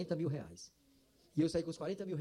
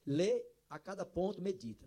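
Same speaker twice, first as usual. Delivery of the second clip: voice of God; slower than usual. Retold or imitated. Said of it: "aquela mesma voz disse-me".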